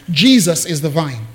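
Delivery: Jesus stated firmly, falling; emphasized. Shown as a demonstration. Preacher stressing Jesus to his congregation, emphatic. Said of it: "I wanna emphasize".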